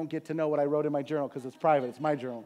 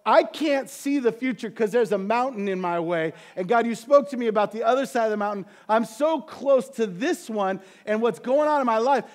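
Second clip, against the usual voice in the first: frustrated lament; 3 semitones higher, 4 dB louder than usual. Retold or imitated. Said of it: "down and out like that".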